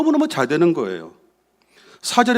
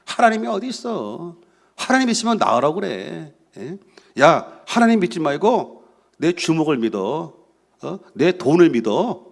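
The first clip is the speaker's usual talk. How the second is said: imitating scoffers, slowing to stretched-out boasts; mock the believers with mild swagger; mocking, arrogant. The wicked scoff at a believer about God, arrogantly imitated. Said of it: "하나님을 조롱하고 무시하는 말을".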